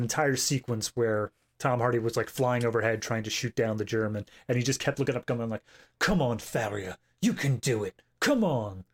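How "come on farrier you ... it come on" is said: put-on loose English accent on a Scottish pilot; vague British accent. Host urging a pilot on in a loose British accent. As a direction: coax him on in a half-done British accent. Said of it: "Were you doing an English accent there for the Scottish pilot?".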